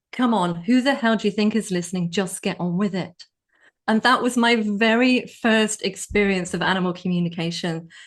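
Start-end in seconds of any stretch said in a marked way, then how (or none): 0.2-3.3 put-on strong, forceful, opinionated voice. Retelling a voice heard in the inner voice, imitating a strong opinionated voice. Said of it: "really strong, opinionated voice saying".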